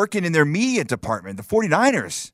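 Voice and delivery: high, fast gushing; mock excited news. Son faking dream job to mom, high and fast gushing. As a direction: rush it out like the best news ever.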